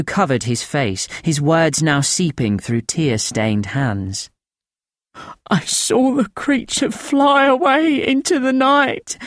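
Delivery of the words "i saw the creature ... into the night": higher, thin rasping voice of a haunted man; thin rasping old voice. A narrator's reading. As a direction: rasp it out thin and frightened, pitched up. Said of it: "His voice a thin, rasping trickle".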